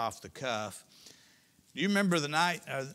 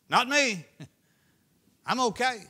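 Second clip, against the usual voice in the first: higher, louder, laughing it off; laughing mock denial; 10 semitones higher, 10 dB louder than usual. Preacher mocking Peter, laughing as he denies. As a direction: laugh through the brag.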